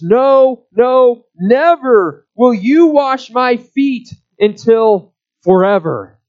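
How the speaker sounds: Peter flatly refusing, every word pressed; emphatic refusal. Retold or imitated. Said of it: "is emphatic in the Greek".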